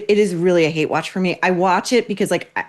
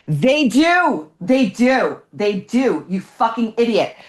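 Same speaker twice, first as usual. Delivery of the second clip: mocking retort; 4 semitones higher, slower than usual. Real, not acted. Host scoffing back at the quoted Hoda, mocking. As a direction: sneer it back at her, building contempt.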